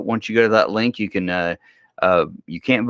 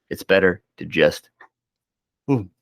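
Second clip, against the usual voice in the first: words stretched by a yawn; 3 semitones lower than usual. Real, not acted. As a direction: talk through a yawn. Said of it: "I'm sorry, I just yawned".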